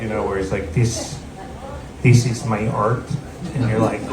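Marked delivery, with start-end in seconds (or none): 0.7-3.0 lightly voiced self-important auteur chef; a hint of a grave German artist; Werner Herzog. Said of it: "thinks he's like Werner Herzog".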